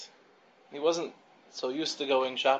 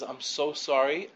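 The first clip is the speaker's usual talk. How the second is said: drawn-out apology; slower than usual. Retold or imitated. Shopper apologizes for forgetting again.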